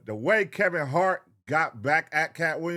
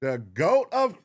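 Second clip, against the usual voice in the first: outraged; 4 semitones higher, 3 dB louder than usual. Real, not acted. Outraged repeat of complaint.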